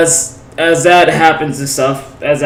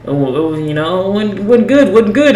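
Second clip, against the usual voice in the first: stumbling over the words, pitch jumping higher; tongue-tied, voice climbing high; flustered stammer; 5 semitones higher than usual. Retold or imitated. Saying bye to the blushing girl, flustered and tongue-tied.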